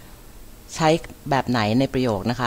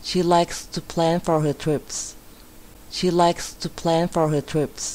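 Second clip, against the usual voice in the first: higher, careful English teacher reading; model sentence reading; 3 semitones higher, much slower than usual. Shown as a demonstration. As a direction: read it out clearly for learners to repeat.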